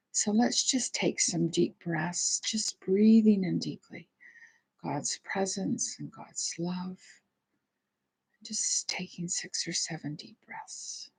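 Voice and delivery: gentle guided meditation voice with long pauses. Real, not acted. Leads a meditation and prayer.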